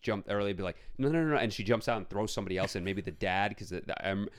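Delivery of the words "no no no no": higher, louder urgent no's; voicing Rose pulling out of the jump; imagined plea. Rose refusing to stay, urgent cry.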